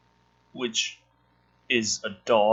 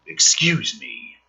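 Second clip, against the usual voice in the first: slow, dragged-out mockery; mock slow drawl; 3 semitones higher, slower than usual. Comic mocking the script's odd line, slow and incredulous. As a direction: stretch it out in disbelief.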